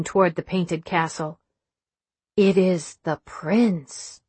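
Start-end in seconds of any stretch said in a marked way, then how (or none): 2.4-4.2 slow and hushed with awe; reverent. Acted. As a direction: speak it like a holy vision. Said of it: "She managed to sound reverent".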